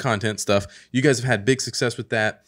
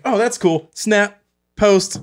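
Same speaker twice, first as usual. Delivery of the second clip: excited; 10 semitones higher, 7 dB louder, much slower than usual. Retold or imitated. Mocking a quick snap post.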